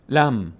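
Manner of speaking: "لم" as one syllable "lam", M held; لام joined to میم. Shown as a demonstration. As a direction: close "لم" on a vowelless M. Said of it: "لام میچسبه به میم". («لَم» با میمِ ساکن)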